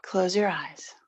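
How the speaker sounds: soft, unhurried settling-in voice; quiet, even meditation cue; guided meditation. Real, not acted. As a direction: gently guide them into stillness, long pauses between phrases.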